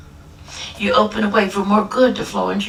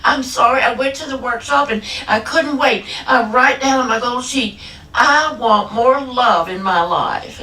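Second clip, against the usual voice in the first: mock tearful wail, a little raised; imitated bawling; 3 semitones higher than usual. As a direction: act out a caller blubbering her confession. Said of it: "She's crying like a baby, all bawling".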